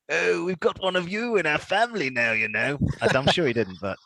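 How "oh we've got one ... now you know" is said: lightly voiced royal muttering under his breath; a sly royal aside, half-hidden; mock Charlie aside. Charlie murmuring to family about a new knight, lightly voiced royal aside. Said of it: "under his breath you've got Charlie going".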